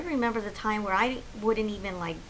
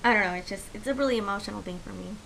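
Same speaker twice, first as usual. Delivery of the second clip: emotional. Real, not acted. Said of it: "I'm getting a little emotional".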